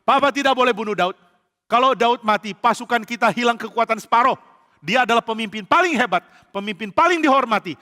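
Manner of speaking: high, loud, forceful protest; angry pleading argument. Acted. Son forbidding his father to kill Daud, angry protest. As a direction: argue heatedly for your friend's life. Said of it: "Yonatan juga marah sekali".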